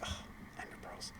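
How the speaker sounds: quick whispered self-correction; whispered aside. Real, not acted. Stumbling over a line to viewers, she whispers to herself. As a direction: hush it under your breath, fed up with yourself. Aside after tripping on words.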